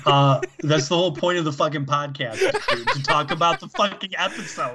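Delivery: laughing through exasperation; laughing protest. Real, not acted.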